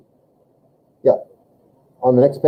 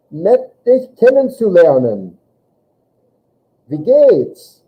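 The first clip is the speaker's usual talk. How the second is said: voicing Hans; 6 semitones higher, 4 dB louder, much slower than usual. Teacher voicing Hans greeting.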